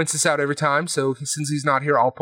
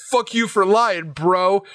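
higher, slow mock outrage; a slowed-down, higher imitation of righteous scorn; mock angry Mike; 5 semitones higher, slower than usual. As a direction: ham up the indignant paladin. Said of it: "he's like".

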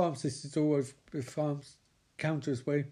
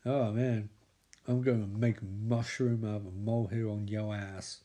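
sinister pharmacist; 5 semitones lower than usual. Retold or imitated. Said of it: "And he's like".

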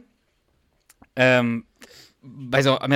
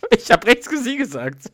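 higher, louder mock replay of the silly line; 9 semitones higher, 5 dB louder than usual. Reader mocks Duck's line to his co-reader, higher and louder. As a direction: ham the line up to laugh at Duck.

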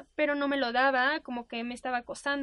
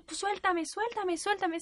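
retold protest; 6 semitones higher, slower than usual. Acted struggle to be let go.

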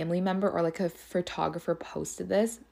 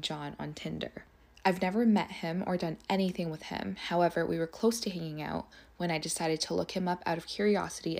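softer, measured read-aloud; reading a message aloud; 3 dB quieter than usual. Acted. Reading out her message to the man's wife, measured and restrained.

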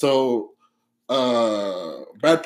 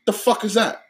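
mad British gangster; 5 semitones higher than usual. Retold or imitated. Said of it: "And he gets mad".

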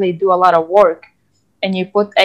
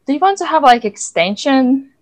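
kindly lecturer offering; 6 semitones higher than usual. Retold or imitated. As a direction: lightly voice a gentle lecturer. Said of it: "He's like".

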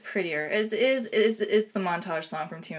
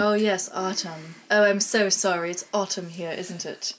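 put-on English accent; 3 dB louder than usual. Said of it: "I just did".

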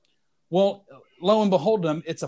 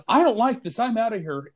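mild mock panic, pitched up; higher, lightly acted fright; retold alarm; 4 semitones higher than usual. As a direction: play a spooked lad about to bolt. Retold scared young man bolting.

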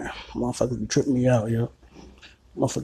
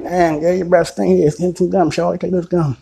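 louder, higher blunt callout; retold loud callout; 6 semitones higher, 7 dB louder than usual. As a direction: call her out loudly about the breath. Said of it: "I'm like".

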